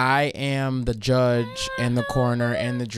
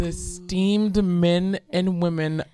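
slow, mock-grand courtroom address; dramatic student lawyer; 3 semitones higher, slower than usual. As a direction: quote it with hammed-up ceremony. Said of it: "I appreciated the dramatics".

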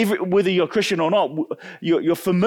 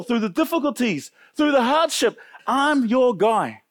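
raised, earnest voicing of a boastful disciple; Peter's eager vow; 5 semitones higher than usual. Peter promising Jesus, a lightly voiced eager boast. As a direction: swear it proudly, like a man sure of himself.

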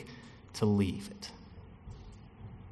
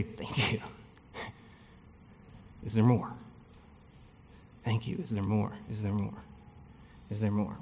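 soft, hushed little request; acted-out meek, grateful plea; quiet asking; 3 semitones lower, 8 dB quieter than usual. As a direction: ask softly for another helping. Acting out a grateful receiver asking.

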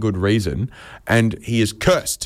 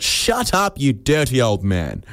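collective scolding; slower than usual. Retold or imitated. Whole country telling off the German accuser, mock-outraged. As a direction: jump up in pitch, then slow down to scold.

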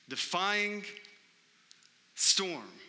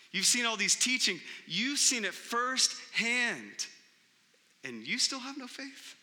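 Jesus, higher and incredulous; surprised Jesus; 5 semitones higher than usual. Retold or imitated. Jesus to his disciples, incredulous and surprised. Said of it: "there's some surprise in that voice".

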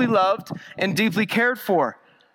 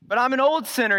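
higher, pleading objection; doubting sinner; 4 semitones higher, faster than usual. Retold or imitated. Preacher voicing a sinner objecting to Christ, higher and pleading. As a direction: lightly voice the worried sinner's protest. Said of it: "you say".

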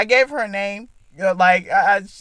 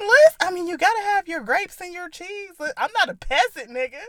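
put-on Valley Girl voice; 10 semitones higher than usual. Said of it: "my Valley Girl voice".

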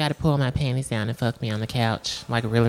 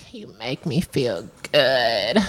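imitating Halle Berry; slower than usual. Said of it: "What is it that she says?".

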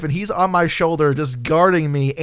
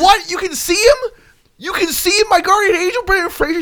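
mock astonished; 12 semitones higher than usual. Detective to the voodoo doctor, hammed-up astonishment. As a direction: gasp it out like a stunned cop. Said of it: "we're like".

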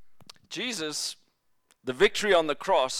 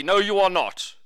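mock-firm rebuke, a bit louder; retold rebuke; 5 dB louder than usual. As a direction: imitate Peter putting his foot down. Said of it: "Peter rebukes him soundly".

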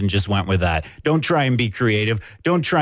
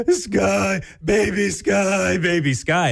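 much higher, drawn-out mock toddler cry; imitating screaming toddler; 9 semitones higher, slower than usual. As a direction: call out the name like an upset little girl. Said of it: "she started screaming".

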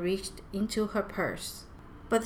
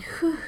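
deep breath out; 10 semitones higher than usual. A narrator's reading. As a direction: blow out a calming "whew". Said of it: "let out a deep breath".

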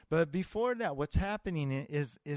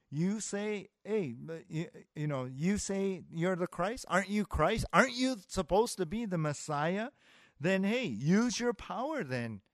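imitated taunt, raised in pitch; mocking; 4 semitones higher than usual. Thief on the cross goading Jesus, mocking. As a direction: challenge him with insistent mock questions. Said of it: "in this mocking".

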